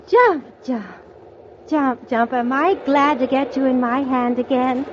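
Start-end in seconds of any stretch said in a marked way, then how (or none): none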